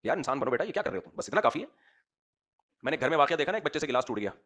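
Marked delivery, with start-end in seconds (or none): 0.0-1.1 a light firm rebuke, not shouting; a touch of stern parent; mildly stern. Shown as a demonstration. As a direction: correct a child firmly but calmly. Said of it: "थोड़ा सख्त लहजे में कर दो तंबी".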